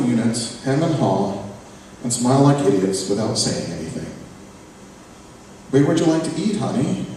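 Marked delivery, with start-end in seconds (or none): 5.7-7.1 higher, sweetly accommodating mom; mother at dinner, falsely sweet; mother asking. Acted. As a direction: coax the son with a rise.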